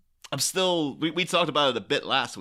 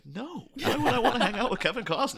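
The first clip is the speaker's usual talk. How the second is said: laughing; 10 semitones higher than usual. Retold or imitated. Tim Burton refusing Costner quote.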